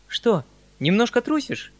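high teasing question; smiling tease. A narrator's reading. Uncle smilingly teases his nervous nephew. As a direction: smile as you needle him. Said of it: "прервал дядя с улыбкою".

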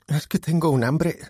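high voice, mouth full. A narrator's reading. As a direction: talk through a mouthful of food. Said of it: "le contestó Dakota con la boca llena".

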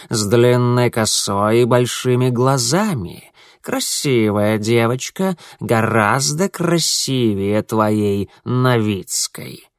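slow velvety purr, savoring each word; a smug cat purring praise. Acted. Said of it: "бархатным голосом сообщил скарбник". (бархатное мурлыканье кота)

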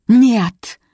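high, loud, abrupt bark. A narrator's reading. Mother denying her son's question, barking. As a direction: bark a single denial. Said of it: "гаркнула Зинаида".

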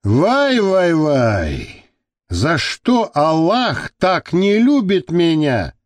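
a captor crying out to Allah in woe; sorrowful lament. Acted. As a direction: lament to the heavens, slowing down. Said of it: "горестно воскликнул Азиз Шакбараев".

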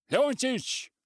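high, loud shriek of the name. A narrator's reading. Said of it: "взвизгнул он".

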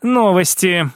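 woman's character voice hunting for the word; lightly voiced sister. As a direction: draw out the suspense, then hesitate. Sister teases big news, hesitates.

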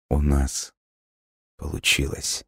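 put-on a soft, hushed boy's voice; soft gentle voice. A narrator's reading. Ghostly boy softly tells the girl, gentle and hushed. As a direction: speak it gently and quietly. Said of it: "его мягкий голос".

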